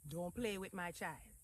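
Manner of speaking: put-on understated Trinidadian accent; quiet warning in a Trini accent. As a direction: lightly imitate a protective Trini mother. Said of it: "in a Trini accent".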